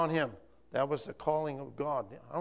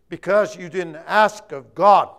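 stern prophet; 4 semitones higher, 15 dB louder, slower than usual. Acted. Elijah rebuking the king's messenger.

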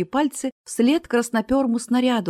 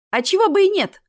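much higher, teasing goad; egging on; 11 semitones higher, 5 dB louder than usual. A narrator's reading. Barker in a vest goads the crowd, teasing. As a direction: needle the showman, pitched high. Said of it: "подначивал зазывал".

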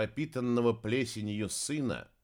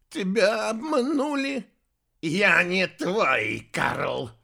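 loud, raised-pitch angry retort; vicious barking; 9 semitones higher, 7 dB louder, slower than usual. A narrator's reading. Heir throttling Anfisa, barking viciously. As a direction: bark it back with malice. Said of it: "злобно рявкнул наследник".

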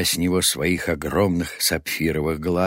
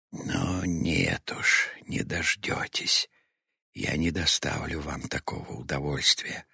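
hissed defiance; 7 dB quieter than usual. A narrator's reading. Girl watching the raging crowd refuses them satisfaction, hissing. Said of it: "прошипела".

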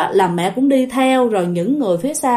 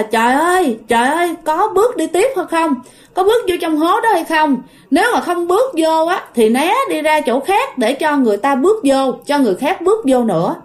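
impatient crowd yelling; 5 semitones higher than usual. Retold or imitated. People behind in the queue urge her on, mock impatient yell. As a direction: imitate impatient people urging her to move on. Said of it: "người ta mới la lên".

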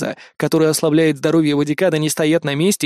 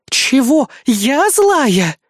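high, incredulous retort; indignant outrage; 9 semitones higher, 3 dB louder, much slower than usual. A narrator's reading. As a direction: throw it back, bursting with indignation. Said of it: "сейчас лопнет от возмущения".

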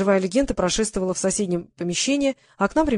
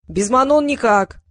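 raised, drawn-out yell; 5 semitones higher, 5 dB louder, slower than usual. A narrator's reading. Someone in the corridor yelling into the dressing room. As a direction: call it out loudly, stretching the words. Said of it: "заорали из коридора".

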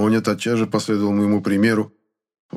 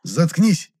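sharp order; 8 semitones higher than usual. A narrator's reading. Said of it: "велел я".

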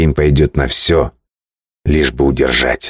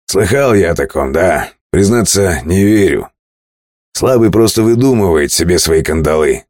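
brisk, raised captain voice; sea captain voice; 3 semitones higher than usual. Acted. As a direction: argue like a bold sailor. (голос капитана)

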